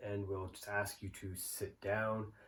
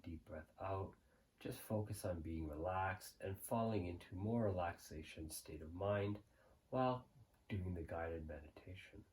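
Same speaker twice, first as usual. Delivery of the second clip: calm, softer meditation voice with long pauses; guided meditation; 5 dB quieter than usual. Real, not acted. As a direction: guide the listener gently into the present moment, unhurried.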